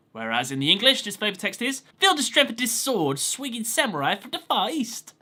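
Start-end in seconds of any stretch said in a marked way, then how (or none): 2.0-5.1 put-on faint Brooklyn accent, higher; a half-hearted Brooklyn tough-guy read; barely there Brooklyn accent. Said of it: "Am I even slightly doing a Brooklyn accent there".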